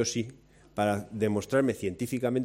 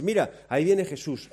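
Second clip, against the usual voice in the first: mock calm disciple, laughing; 4 dB louder than usual. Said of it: "Lo anormal sería que ... dijese".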